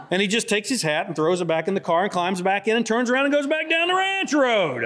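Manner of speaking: laughing through the words. Real, not acted. Laughing while telling the ending.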